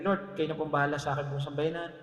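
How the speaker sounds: low, run-through sample prayer; lightly acted generic prayer. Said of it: "generic na prayer".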